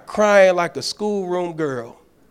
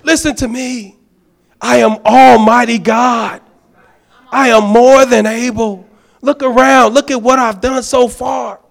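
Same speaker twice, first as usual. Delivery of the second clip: louder, commanding God speaking; voice of Almighty God; 4 semitones higher, 7 dB louder than usual. Retold or imitated. God answering the doubter, loud and commanding. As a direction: boom it out as the Almighty. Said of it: "It's like".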